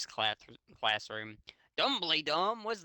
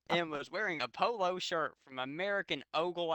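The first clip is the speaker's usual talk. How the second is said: laughing; 4 semitones higher than usual. Real, not acted. Reading while laughing.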